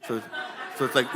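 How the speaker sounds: ordinary delivery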